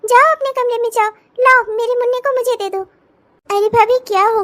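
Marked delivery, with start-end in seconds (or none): 0.0-2.9 higher-pitched, flustered disapproval; pitched-up, urgent reproach; startled scolding. Acted. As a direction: scold the young bride in shocked alarm. Scandalised sister-in-law scolds bride.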